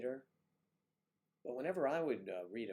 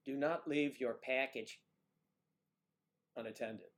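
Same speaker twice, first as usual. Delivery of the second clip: airport announcement; 4 dB louder than usual. Retold or imitated. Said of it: "over the speaker came".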